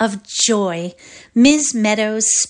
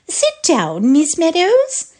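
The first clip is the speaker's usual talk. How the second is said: kindly; 8 semitones higher, 6 dB louder, slower than usual. Acted. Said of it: "she said very kindly".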